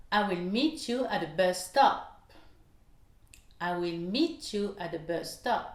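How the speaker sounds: MEET, BUS and STOP stressed, the other words light; sentence stress demo. Shown as a demonstration. Teacher shows learners the three stressed words, stress on MEET, BUS, STOP. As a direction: hit MEET, BUS, STOP in "I will meet you at the bus stop". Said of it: "vous entendez bien qu'il y a trois mots accentués".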